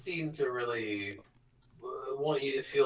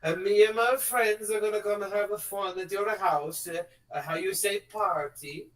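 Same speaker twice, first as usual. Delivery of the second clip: higher mock-menacing announcement; villain broadcast; 4 semitones higher than usual. Villain on a microphone threatening the planet, hammed-up menace. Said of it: "she's like".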